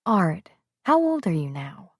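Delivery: put-on woman gently questioning a childlike man; gentle question. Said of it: "very gently asked".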